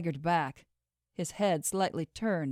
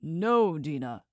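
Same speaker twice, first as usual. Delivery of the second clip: shouting; 2 semitones lower, slower than usual. Acted. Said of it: "Kieran shouted".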